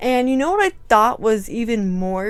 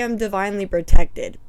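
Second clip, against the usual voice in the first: louder, firm proclamation; loud declaration; 8 dB louder, faster than usual. Real, not acted. Affirming to viewers she's safe, loud firm declaration. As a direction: declare it like armor.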